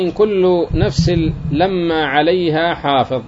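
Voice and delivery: slow, measured Quranic reading of "إن كل نفس لما عليها حافظ"; slow verse recitation. Shown as a demonstration. Teacher reciting the verse to students, slow and measured. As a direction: recite the verse slowly and deliberately. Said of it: "قال تعالى".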